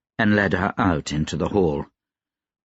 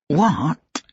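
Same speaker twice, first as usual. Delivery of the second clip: "What" set apart, higher-pitched; emphasis on each word; 8 semitones higher than usual. A narrator's reading. Gentleman jerking her face as he demands an answer, "What" stressed alone. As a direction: land hard on "What", then stop. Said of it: "with emphasis on each word".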